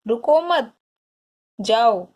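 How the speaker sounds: no break inside रुको मत, then stop before जाओ; pause after मत. Shown as a demonstration. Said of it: "इसलिए कैसे बोले गए हैं?". ("रुको मत" जोड़कर, रुककर "जाओ")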